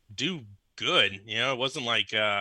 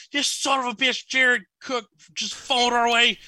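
much higher, louder cussing outburst, slowing down; retold furious yell at the radio; 13 semitones higher, 6 dB louder than usual. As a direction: re-enact yelling at a bad play on the radio. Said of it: "Who are you screaming at?".

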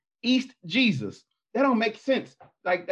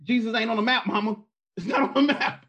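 mock scolding; 5 semitones higher than usual. Teasing mom directly, mock scolding.

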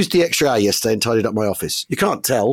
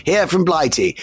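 lightly voiced wartime RAF chap; a hint of an old RAF officer; RAF pilot voice. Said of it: "Now, why am I talking like this".

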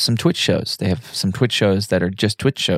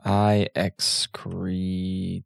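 whisper; 8 dB quieter, much slower than usual. Retold or imitated. Imitating a Borg line.

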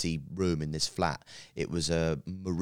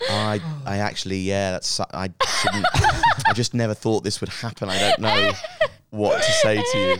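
flustered stammering; 4 semitones higher, 9 dB louder than usual. Retold or imitated. Acts his flustered reply, laughing.

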